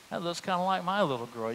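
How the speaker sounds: soft, hushed private worry; uneasy inner thought. Retold or imitated. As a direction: say it under your breath, unsettled. Inner thought seeing missing poster.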